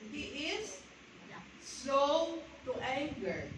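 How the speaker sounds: slow to anger stretched out word by word; drawn-out slow. Shown as a demonstration. Preacher to congregation, savouring the verse slowly. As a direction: let each word linger to show patience.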